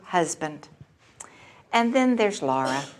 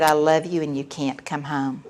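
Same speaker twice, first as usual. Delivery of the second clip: low, calm, softly final; peaceful firmness; 6 semitones lower, 5 dB quieter than usual. Retold or imitated. Mother ending call with angry daughter, serene. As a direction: close the argument gently but firmly. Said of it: "I was as peaceful as I've ever been".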